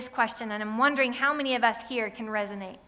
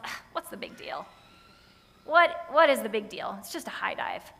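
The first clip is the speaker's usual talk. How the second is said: put-on indifferent kid. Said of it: "core mantra of, like, indifference".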